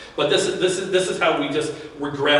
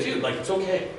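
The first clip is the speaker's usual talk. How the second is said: reassuring self-talk; 2 semitones higher, 6 dB quieter than usual. Pretend. Hand on chest, comforting the scared kid inside, softer. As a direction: softly reassure a scared eight-year-old inside. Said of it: "basically you're saying".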